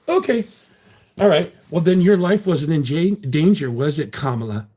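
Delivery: high, loud sarcastic okay; mock them from way up high. Real, not acted. Mocking troll, voice jumps high.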